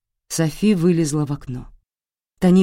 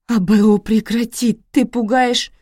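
loud, higher, desperate begging; frightened plea; 7 semitones higher, 6 dB louder than usual. Acted. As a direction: beg him to stop. Wife begging husband.

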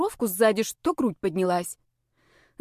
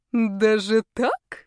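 sly; 2 semitones higher, 3 dB louder, much slower than usual. A narrator's reading. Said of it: "женщина хитро улыбнулась".

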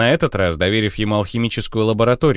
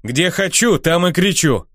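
snapping back; 7 semitones higher, slower than usual. Acted. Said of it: "огрызнулся Финиамин".

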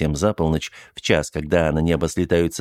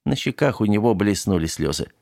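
usual speaking voice

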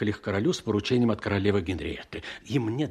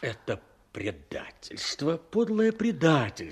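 outraged; 5 semitones higher than usual. Acted. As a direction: spit out the accusation. Count denounces betrayal.

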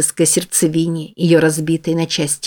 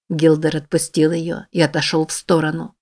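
normal talking voice

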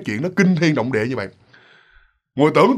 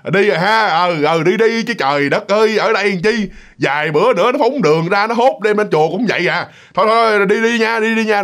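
put-on drunk old man; 4 semitones higher than usual. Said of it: "Kiểu như ông cười".

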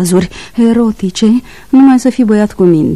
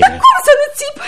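high cry with a laugh. Acted. Woman answering why she yells, laughing high. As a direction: protest through a laugh. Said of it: "De ce țipi la mine?".

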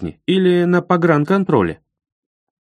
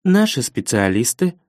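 toneless machine-like operator; robot voice. Acted. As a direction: repeat it like a robot. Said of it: "тем же голосом робота повторила Алина".

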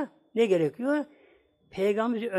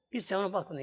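softer, resigned reproach; subdued retelling; 6 dB quieter, faster than usual. Retold or imitated. Wife says her husband still ignored her, subdued retelling. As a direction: let the retold plea sink down quietly. Ignored again, retold quietly.

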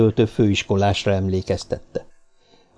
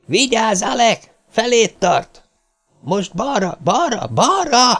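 much higher, urgent warning shout; 11 semitones higher, slower than usual. A narrator's reading. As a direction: yell the warning across the bushes. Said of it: "kiáltás harsant a bokrok között". (magas, sürgető figyelmeztető kiáltás)

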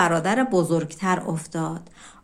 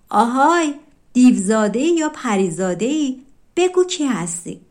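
louder, startled call from hiding; shout; 3 semitones higher, 4 dB louder than usual. Acted. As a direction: jump out and challenge the stranger loudly. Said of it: "فریاد زد".

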